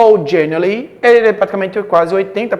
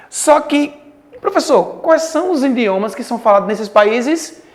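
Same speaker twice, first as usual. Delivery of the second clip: mock student question; 5 semitones higher than usual. Teacher voices student asking.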